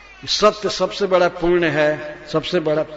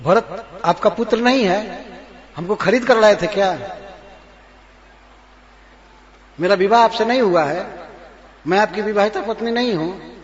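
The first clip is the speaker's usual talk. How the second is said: angry queen; 3 semitones higher, 3 dB louder than usual. Acted. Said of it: "इस तरह से बोलती है".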